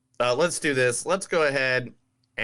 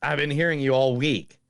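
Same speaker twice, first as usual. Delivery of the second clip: Southern accent; 6 semitones higher than usual. Shown as a demonstration. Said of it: "That's better".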